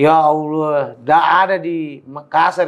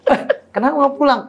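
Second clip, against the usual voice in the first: teacher asking; 11 semitones higher than usual. Retold or imitated. Teacher asks why.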